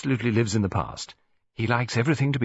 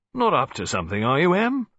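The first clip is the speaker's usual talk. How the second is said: put-on blustering old colonel, louder; irritable old soldier grumbling; gruff colonel; 7 semitones higher, 4 dB louder than usual. A narrator's reading. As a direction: grumble about the foreigner, loud. Colonel suspicious.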